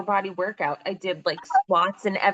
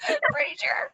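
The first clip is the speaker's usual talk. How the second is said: whispered echo. Real, not acted. Echoing joke in whisper.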